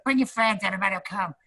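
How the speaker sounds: high breezy put-on voice; imitating Ralphie. Ralphie inviting everyone to dinner, high breezy voice. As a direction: pitch it up and invite everyone grandly.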